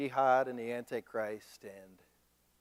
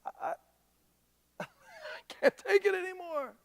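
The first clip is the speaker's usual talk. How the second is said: mock exasperation; 6 dB quieter than usual. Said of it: "they're like".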